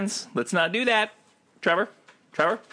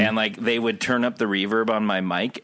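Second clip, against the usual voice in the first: normal talking voice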